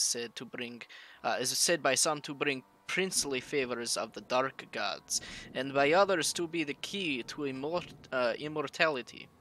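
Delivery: put-on heavy Russian accent, reading an occult text; solemn Russian-accented reading. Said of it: "It is hard doing that Russian accent for long".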